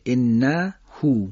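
انهو بسیار آهسته و با هوی کشیده; انهو را کش بده و هو را بلند بکش; drawn-out recitation. Shown as a demonstration.

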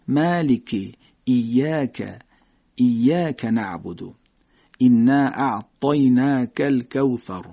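slow examples with a light Arabic k in ایاک; ایاک slowly, k thin and unpalatalized; thin kaf. Shown as a demonstration. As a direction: recite الکوثر with a thin k from the back. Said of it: "کاف رو نازک از زبان کوچک ادا بکنیم".

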